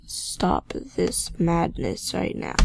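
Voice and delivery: slow, breathy, under the breath; exasperated hush. Real, not acted. Player begs the lagging game under her breath, slow and exasperated. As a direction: plead with the game through clenched frustration.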